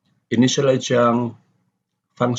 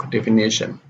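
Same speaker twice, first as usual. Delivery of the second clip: "definition" as defi-NI-tion; stress before -tion. Shown as a demonstration. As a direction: lean on NI in "definition". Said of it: "The same is here".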